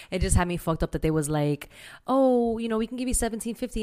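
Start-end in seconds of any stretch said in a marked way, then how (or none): 2.1-3.8 high, fast mock-polite recruiter. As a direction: parrot the lowball offer sweetly. Mocking the recruiter's offer.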